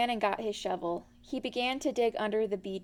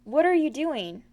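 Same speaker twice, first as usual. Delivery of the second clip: higher, louder bouncy voice; springy and curious; lively Tigger; 4 semitones higher, 5 dB louder than usual. A narrator's reading. Tigger quizzing Pooh, bouncy and high.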